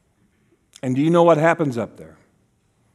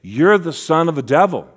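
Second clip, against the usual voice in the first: raised accusing voice; accusers; 4 dB louder than usual. Acted. Pharisees accusing Jesus to his face, mildly raised accusation. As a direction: hurl it as an accusation. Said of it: "they would say".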